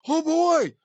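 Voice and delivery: high, loud imitated thrill; hammed-up gleeful exclamation; creepy excitement. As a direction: burst out like an overexcited creep. Creep aroused by the officer's tale.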